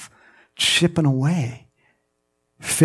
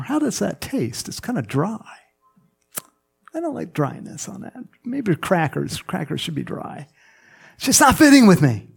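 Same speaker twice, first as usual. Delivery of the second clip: lightly voiced fussy taster, higher-pitched; mock picky doubter; 5 semitones higher than usual. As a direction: pick at it in a higher complaining voice.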